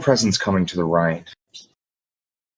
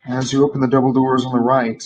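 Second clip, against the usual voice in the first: game master narration; 3 semitones higher than usual. Acted. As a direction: paint the room for the players. GM scene narration.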